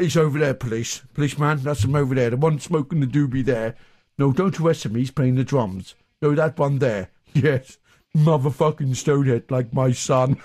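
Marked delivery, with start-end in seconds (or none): none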